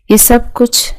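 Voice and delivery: hushed unvoiced whisper. Javed whispering the secret to his boss. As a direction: breathe it like a secret.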